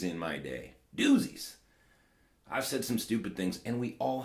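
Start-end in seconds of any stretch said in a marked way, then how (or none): 1.0-1.5 playful squeak. Pretend. Echoing his own word for fun.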